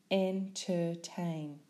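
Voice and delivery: "Entertain" slowly, syllable by syllable; split into syllables. Shown as a demonstration.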